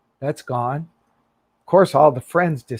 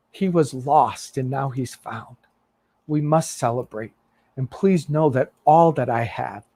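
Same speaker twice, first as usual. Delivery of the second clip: tender father; 3 semitones lower than usual. Acted. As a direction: gently soothe a hurt son. Father answers with love.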